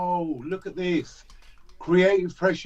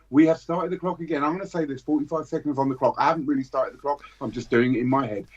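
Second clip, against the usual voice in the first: lively auction calling, bids rattled off; auctioneer play-by-play; 4 semitones higher than usual. Acted. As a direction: call the bids like a hyped auctioneer. Runs mock auction play-by-play.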